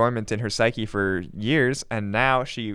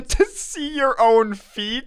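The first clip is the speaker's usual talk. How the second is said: incredulous; 9 semitones higher, 5 dB louder, slower than usual. Real, not acted. Incredulous laughing repeat of reading.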